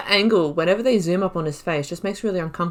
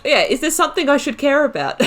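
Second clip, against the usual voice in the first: asked through a laugh, a bit louder; giggling while reading the line out; 8 semitones higher, 5 dB louder than usual. Real, not acted. Player laughing at her rude elf's reply.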